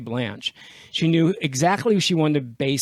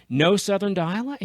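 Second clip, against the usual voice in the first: higher, disbelieving echo with questioning tune; incredulous question; 5 semitones higher than usual. Retold or imitated. Actress questions the director's ban, incredulous. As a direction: imitate an actress querying an order in disbelief.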